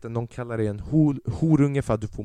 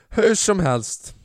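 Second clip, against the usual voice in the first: drawn-out moving on; 7 semitones higher, 4 dB louder, much slower than usual. Real, not acted. Pushes past awkward moment.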